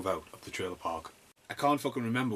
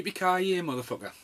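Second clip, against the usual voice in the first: higher, louder movie-hero yell of the catchphrase; Die Hard catchphrase; 9 semitones higher, 3 dB louder than usual. Retold or imitated. Reviewer quotes the Die Hard catchphrase as a hammed-up yell. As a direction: belt it out like an action hero. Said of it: "What should we say to make a point?".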